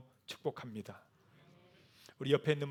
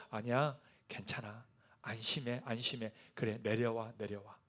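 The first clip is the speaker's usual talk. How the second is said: gentle reassurance; 4 semitones lower, 6 dB quieter than usual. Acted. Jesus reassuring the men.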